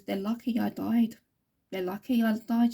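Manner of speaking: a bit of a stern voice, slightly firmer. Retold or imitated. Late mother rebuking her daughters through the reader, mildly stern. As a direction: relay it with mild sternness. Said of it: "bit of a stern voice".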